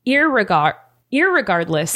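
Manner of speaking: "irregardless" broken off and restarted; stumbling attempt. Shown as a demonstration. Trying a word I can't say, stumbling attempt. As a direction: stumble on "irregardless", then get through it. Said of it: "I can't say".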